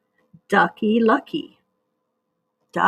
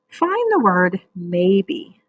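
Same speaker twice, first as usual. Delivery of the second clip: very slow instruction; much slower than usual. Shown as a demonstration.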